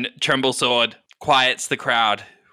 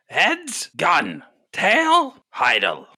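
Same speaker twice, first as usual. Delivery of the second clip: high call, each name dropping back down; arena announcer; 6 semitones higher, 4 dB louder, much slower than usual. Acted. Announcer calls heads or tails for two contestants, high announcer call.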